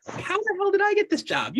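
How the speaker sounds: high squeaky how-the-hell-did-I-get-here; mock disbelief. Leader mocking his own job, high incredulous. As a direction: ham up the bewilderment. Mock bewildered self-questioning.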